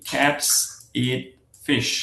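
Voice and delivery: "cats", "eat", "fish।" as separate beats; stressed words only. Shown as a demonstration. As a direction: give "cats", "eat" and "fish।" each a full beat with gaps between. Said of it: "Just stressed word গুলো".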